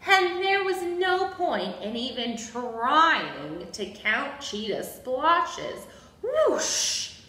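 slow, emphatic picture-book narration; reading to children. A narrator's reading. Storyteller introduces Abigail's love of counting, reading to children. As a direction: read it to small children, stretching key words.

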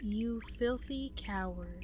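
slow, voiceless, contemptuous; sneering whisper. Acted. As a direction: hiss the insult slowly. Reads enemy's taunt.

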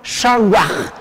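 "shawaj" ending in a Spanish J sound; final Q as J. Shown as a demonstration. Teacher explaining the final Q, said as J. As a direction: let the end of "shawaj" rub like a J. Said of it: "suena como J".

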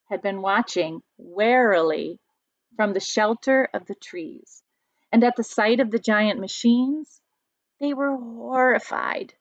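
storybook read-aloud, lightly dramatic; reading to children. A narrator's reading. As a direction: read the story to the class, drawing it out. Teacher reads picture book aloud.

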